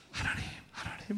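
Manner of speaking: breathy whisper to God; whispered prayer. Retold or imitated. Student whispering a prayer outside the staff room. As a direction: pray under your breath. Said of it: "속으로 기도하고".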